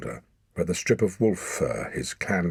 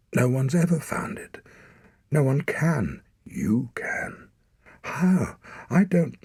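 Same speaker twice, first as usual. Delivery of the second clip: put-on desperate boy; 8 semitones higher, 4 dB louder than usual. A narrator's reading. Boy pleads in distress.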